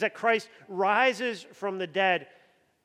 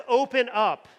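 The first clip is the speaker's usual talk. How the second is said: loud demand; 4 semitones higher, 6 dB louder than usual. Retold or imitated. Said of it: "He says, he says".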